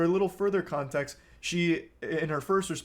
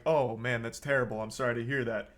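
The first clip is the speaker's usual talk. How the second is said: sincere sympathy; 5 semitones lower than usual. Shown as a demonstration. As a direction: gently say you're sorry. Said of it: "respond with some level of empathy".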